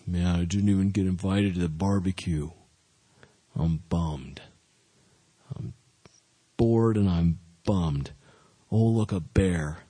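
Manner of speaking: a hint of a whiny bored teen David; lightly voiced sulking young shepherd. Voicing a bored, sulky David.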